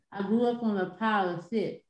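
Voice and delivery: "pirate ship" blurred by holding the tongue; tongue sticking out. Shown as a demonstration. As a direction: speak while holding your tongue. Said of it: "So when you hold your tongue and say".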